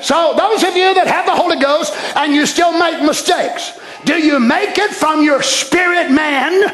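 emphatic pulpit questioning; impassioned preacher driving a point; preaching. Acted. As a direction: challenge the congregation with full voice. Preaches at full force.

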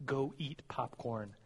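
slow and soft, spelling out a memory trick; slow quiet mnemonic read. Shown as a demonstration. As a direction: say it slowly like a little rhyme to remember. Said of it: "I've memorized it as".

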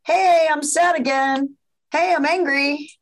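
a light hint of a child calling at the door; emotions as children. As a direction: emotions knocking like kids at the door. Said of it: "your children knocking on the door".

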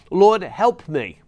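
pleading cry. Acted. Kneeling woman begs Jesus for help, a loud slow plea.

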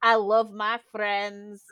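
mimicked teacher, slow and deliberate; imitated acting teacher. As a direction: draw it out like a teacher leading a mantra. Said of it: "and he'd go".

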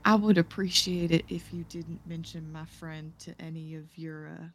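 softly spoken, trailing off very quiet; lightly voiced discreet request. Adventurer asking priest to keep a friend secret, discreet and soft. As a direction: drop the volume for a careful favour. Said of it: "Tig will say".

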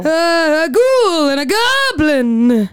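slow, sneering goblin voice. Pretend. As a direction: drag it out like a goblin. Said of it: "I gotta talk like I'm a".

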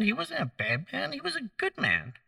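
preacher gently vouching for Peter; soft insistence. Real, not acted. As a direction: drop to a hush and reassure. Soft insistence after high line.

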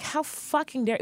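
sharp, high-pitched retort, half in fun; outraged outburst. Retold or imitated. Retelling her reply to her father's link, outraged. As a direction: fire it back in disbelief. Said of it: "And I was like".

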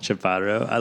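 "Chaparro" copied from a Spanish speaker, R left unrolled; failed Spanish imitation. Shown as a demonstration. Host copying guest's surname, failed Spanish pronunciation. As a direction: attempt "Chaparro" in Spanish without managing the rolled R. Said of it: "I just tried to copy and I can't even do it".

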